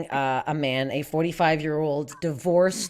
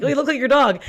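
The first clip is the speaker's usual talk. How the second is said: higher-pitched imitation of a cooing stranger; chirpy passerby; 6 semitones higher, 4 dB louder, faster than usual. People remark on owner and dog, imitated chirpy passerby. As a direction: mimic a gushing dog-park remark. Mimics people commenting on dogs.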